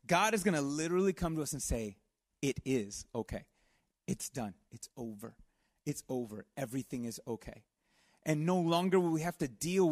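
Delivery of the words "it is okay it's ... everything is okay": gentle reassurance. Retold or imitated. God comforting his people.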